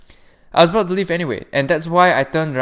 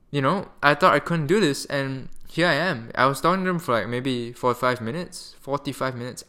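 skipping words. Real, not acted. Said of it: "I don't know why I'm talking so weird today".

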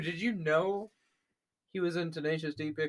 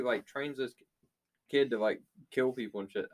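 talking through hiccups; 4 semitones lower than usual. Real, not acted. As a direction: speak while hiccuping. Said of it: "I still have the hiccups".

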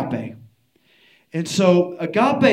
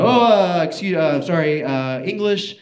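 mock-flustered, halting, starting high and loud; flustered apology; 3 semitones higher, 5 dB louder than usual. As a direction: stumble apologetically through a language barrier. Caught out by Dutch, knows none.

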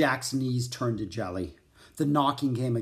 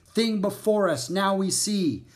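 high, raised-voice chant of a line; shouted recitation; 7 semitones higher, 4 dB louder than usual. A narrator's reading. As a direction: call out a memorised rhyme. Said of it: "Jack shouted the line he had memorized".

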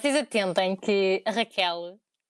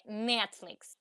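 "Netflix" drawn out, in an English accent; 4 dB quieter than usual. Shown as a demonstration. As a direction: say "Netflix" slowly with English vowels. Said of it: "sotaque inglês". ("Netflix" lento com sotaque inglês)

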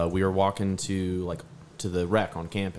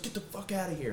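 mock exasperation; 10 semitones higher, 10 dB quieter than usual. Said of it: "I was like".

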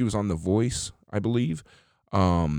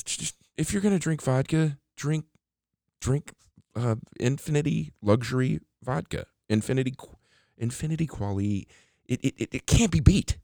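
pitchman enthusiasm; 6 semitones higher than usual. Acted.

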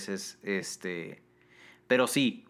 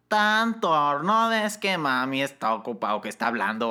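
quoting the mother; 2 semitones higher, 4 dB louder than usual. Retold or imitated.

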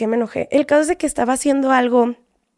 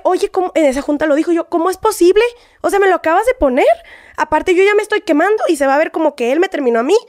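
retold angry protest; 4 semitones higher than usual. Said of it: "Y yo me enojé".

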